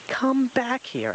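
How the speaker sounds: slow hooting call; Owl hooting. Acted. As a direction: call him back, slowly. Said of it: "Owl hooted again".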